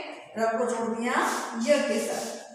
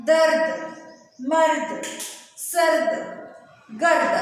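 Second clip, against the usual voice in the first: loud model reading; 3 semitones higher, 5 dB louder, slower than usual. Shown as a demonstration. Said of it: "एक बार और reading करते हैं". (दोबारा पढ़ते हुए ज़ोर से शब्द बोलना)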